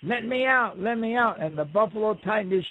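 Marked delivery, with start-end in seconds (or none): 0.0-1.4 high, strained cries to be let out; trapped buzzard yelling. Acted. Buzzard stuck inside the buffalo, crying out high and desperate. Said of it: "the buffalo's going".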